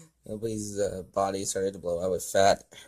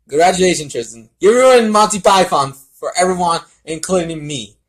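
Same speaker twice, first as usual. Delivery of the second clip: higher, louder mock outrage; pitched-up indignant scolding; 7 semitones higher, 10 dB louder than usual. Real, not acted. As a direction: scold him in jest, raised voice.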